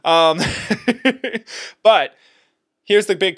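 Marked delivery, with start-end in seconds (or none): 0.5-1.8 high self-amused chuckle; laugh. Real, not acted. Host laughs at having talked so long, high chuckle. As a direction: laugh lightly at yourself, high.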